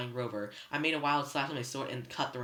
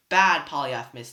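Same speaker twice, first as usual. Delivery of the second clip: loud scolding; 11 dB louder than usual. A narrator's reading. Tyson scolding the Cyclops.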